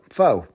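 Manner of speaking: "pho" rhyming with "foe"; "pho" as "foh"; mistaken pronunciation. Shown as a demonstration. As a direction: say "pho" with a long O. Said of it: "we thought it was pronounced".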